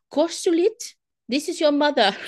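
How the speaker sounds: a hint of a ghostly mother calling her son. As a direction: call his name like a spirit mother. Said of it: "recorded the voice of his deceased mother saying".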